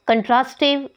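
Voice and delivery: "कंट्रास्टिव" with the force on "ट्रास"; second-syllable stress. Shown as a demonstration. Teacher giving learners an example, "कंट्रास्टिव" stressed on "ट्रास". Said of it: "इसमें second syllable पे है".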